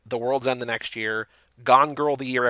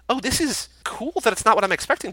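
higher, mock-delighted reaction; pleasantly surprised; 9 semitones higher than usual. Viewer voicing her reaction to the film, higher and pleasantly surprised. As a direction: play an impressed viewer caught off guard. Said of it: "but it's also like".

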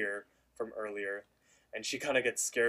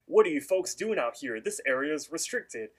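a hint of a stern ranger, a bit louder; lightly voiced park ranger; 4 semitones higher, 4 dB louder than usual. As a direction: play the ranger telling folks off, lightly.

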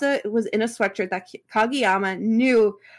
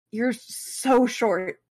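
blurted; much slower than usual. Acted. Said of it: "he blurted out".

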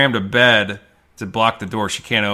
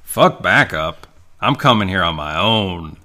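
tough hero bravado; 3 dB louder, slower than usual. Retold or imitated. Hero's gung-ho line in retold movie.

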